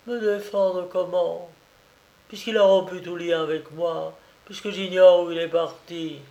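helpless despair; hopeless daughter. Acted.

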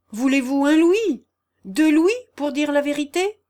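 high, loud urgent offer; calling out. A narrator's reading. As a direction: cry out an offer to stop someone leaving. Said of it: "s'écria le calme et prudent monsieur Harley".

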